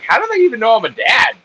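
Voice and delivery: mock outrage. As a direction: yell it like you're insulted. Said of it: "I was like".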